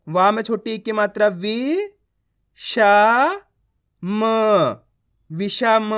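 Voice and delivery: वि, श, म with long pauses, then विषम joined; measured sounding-out of विषम; letter-by-letter reading. Shown as a demonstration. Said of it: "एक एक अक्षर का उच्चारण कर रहा हूँ".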